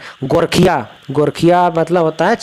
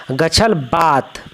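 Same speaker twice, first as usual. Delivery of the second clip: slow model reading; much slower than usual. Shown as a demonstration. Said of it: "गछल बात, slow model reading".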